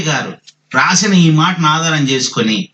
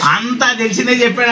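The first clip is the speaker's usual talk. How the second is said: higher, fuller-voiced repeat of the listeners' words; repeating listeners' complaint; 3 semitones higher than usual. Preacher throwing listeners' complaint back at them, imitated complaint. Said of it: "అంటారు మీరు కూడా".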